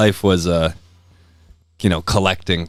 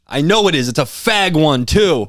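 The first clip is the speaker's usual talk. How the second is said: angry farmer; 7 semitones higher, 4 dB louder, slower than usual. Retold or imitated. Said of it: "He's like".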